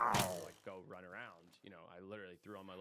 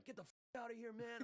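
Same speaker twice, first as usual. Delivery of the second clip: imitating kids brushing him off. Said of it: "And they're like".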